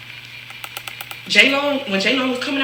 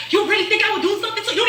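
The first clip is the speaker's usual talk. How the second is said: mock movie drama; 9 semitones higher than usual. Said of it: "like we in a movie".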